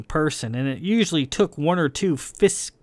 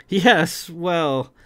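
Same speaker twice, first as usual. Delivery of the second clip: higher, emphatic opening; proud; 4 semitones higher, 3 dB louder than usual. A narrator's reading. Sig cutting in on the captain's story, proud. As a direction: say it with puffed-up pride. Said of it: "Sig said proudly".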